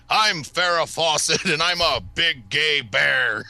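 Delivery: badly botched celebrity impression, sing-song swoops; hammy Malcolm Ingram-style put-on voice; Farrah Fawcett. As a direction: do a failed impression with swooping pitch. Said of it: "do your Farrah Fawcett impression".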